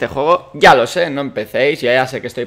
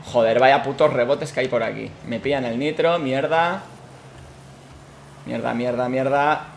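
cursing under breath; 3 semitones lower, 7 dB quieter than usual. Real, not acted. Muttered curses after losing nitro.

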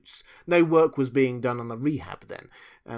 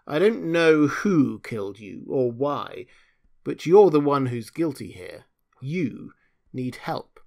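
angry; 3 semitones higher, 7 dB louder than usual. Acted. Deborah angrily accuses him.

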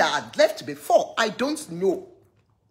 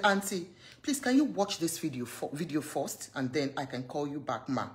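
much softer, lower, timid plea; soft pleading girl; 7 semitones lower, 10 dB quieter than usual. Retold or imitated. The girl gently asking her auntie to watch the video, in a soft timid plea. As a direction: ask meekly, nearly whispering.

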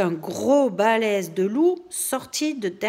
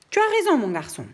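laughing; 7 semitones higher, 4 dB louder, much faster than usual. Acted. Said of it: "dit le loup en rigolant".

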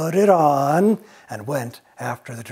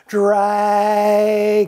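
Dragon called out louder; 6 semitones higher, 5 dB louder than usual. Acted. Elizabeth calling the sleeping dragon louder, Dragon. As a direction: raise the voice on Dragon to wake him. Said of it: "She says louder".

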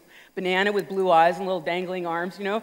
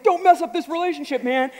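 pleading reader; 8 semitones higher, 6 dB louder than usual. Retold or imitated.

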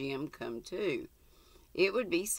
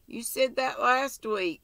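put-on higher and louder, outraged child; indignant cry; 9 semitones higher, 5 dB louder than usual. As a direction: protest hotly like a wronged boy. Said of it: "cried Jim indignantly".

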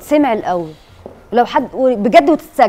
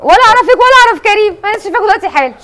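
high-pitched insistent denial; emphatic protest; 8 semitones higher, 5 dB louder, faster than usual. Real, not acted. Host swearing she knows neither of them, emphatic protest. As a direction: plead innocence in a raised, high voice.

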